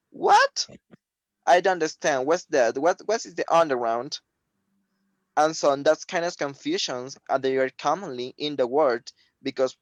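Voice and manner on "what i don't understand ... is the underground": high squeaky what of confusion; confused. Retold or imitated. Listener baffled by the word underground, confused.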